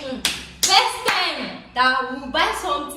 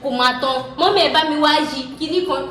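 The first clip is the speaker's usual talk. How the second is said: frantic fast call; 4 semitones higher, 4 dB louder, much faster than usual. Retold or imitated. Fighting the blender, calling Mum.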